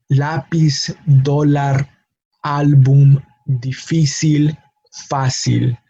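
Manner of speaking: lápiz, dólar, álbum, difícil, fácil, each stressed on its second to last syllable; spaced words: LÁ-piz, DÓ-lar, ÁL-bum, di-FÍ-cil, FÁ-cil. Shown as a demonstration. Teacher repeats exceptions, stressing second to last syllable of lápiz, dólar, álbum, difícil, fácil. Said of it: "on the second to last syllable".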